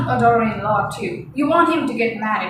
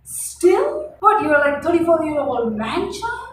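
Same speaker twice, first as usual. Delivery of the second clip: incredulous. Real, not acted. Telling viewers about the thirty-four-year-old son, disbelieving. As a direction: toss it up in disbelief.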